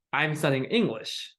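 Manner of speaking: plain statement, pitch going down on "English"; falling intonation. Shown as a demonstration. Teacher models a statement for learners, falling intonation. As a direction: let "English" fall at the end. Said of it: "Just falling".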